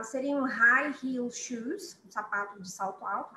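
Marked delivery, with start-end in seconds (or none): 0.0-2.0 slow model. Shown as a demonstration. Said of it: "model phrase".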